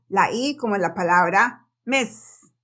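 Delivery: miss said slowly with an open short i; slow careful miss. Shown as a demonstration. Teacher stressing the I in miss. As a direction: drag out the vowel in miss. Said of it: "yo quería hacer mucho énfasis en esto".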